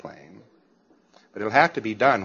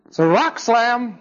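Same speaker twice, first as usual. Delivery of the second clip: higher, slower, certain declaration; confident student voice; 9 semitones higher, 4 dB louder than usual. Pretend. Trained student naming the read, high and certain. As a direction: say it with total certainty.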